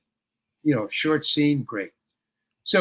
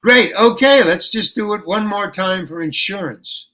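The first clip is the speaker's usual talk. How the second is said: cheery director; 3 semitones higher, 4 dB louder than usual. Retold or imitated. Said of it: "he goes".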